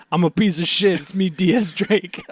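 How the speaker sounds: proud, slowed self-introduction. Retold or imitated. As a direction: announce yourself proudly, dragging the name. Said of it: "he said".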